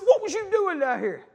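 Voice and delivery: high, slow mock scolding; exasperated questioning. Father demanding again of his son, exasperated. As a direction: pitch the question up and draw it out.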